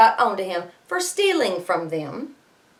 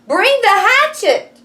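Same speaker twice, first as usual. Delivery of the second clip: higher, louder urgent call; Jack cries out; 13 semitones higher, 8 dB louder, slower than usual. Acted. Teacher voicing Jack calling his mother, urgent shout. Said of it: "cried Jack".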